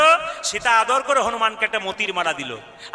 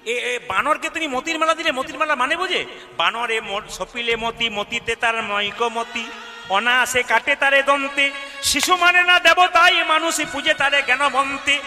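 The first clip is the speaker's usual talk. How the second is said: higher, scolding younger brother reciting verse; scornful Lakshman; 3 semitones higher than usual. Acted. Lakshman scorns Sita's gift to the monkey, higher, mocking.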